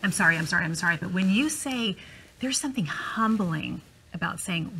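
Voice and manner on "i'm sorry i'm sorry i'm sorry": lower, rushed sorry on repeat; rote repeated sorry. Retold or imitated. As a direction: rattle off apologies by rote. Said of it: "it's easier to say".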